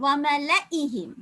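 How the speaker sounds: ஒமல ஈஹிம் slow, with no stretched vowel; recited slowly. Shown as a demonstration. Teacher modelling the correct recitation for students. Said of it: "நீட்டாம ஓதணும்".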